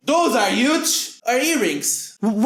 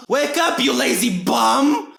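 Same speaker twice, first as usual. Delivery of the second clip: mom voice. Acted. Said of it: "Oh, that's my mom".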